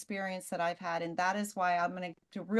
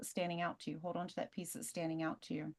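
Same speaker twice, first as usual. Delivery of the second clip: soft guiding voice; 9 dB quieter, faster than usual. Retold or imitated. Hypnotist guiding crying client.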